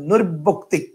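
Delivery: "নৈর্বক্তিক" said as নৈর্ব-বক্তিক; two ব sounds. Shown as a demonstration. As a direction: give each ব in "নৈর্বক্তিক" its own beat. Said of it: "উচ্চারণ কিন্তু এখানে দুইটা ব আছে". ("নৈর্বক্তিক"-এ দুই ব আলাদা করে উচ্চারণ)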